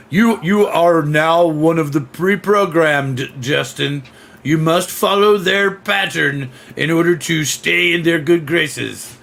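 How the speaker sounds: lightly voiced slow, measured overlord; a hint of programmed drone; mock programmed command. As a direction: spell out the orders with mock solemnity. Mock order to the pre-programmed.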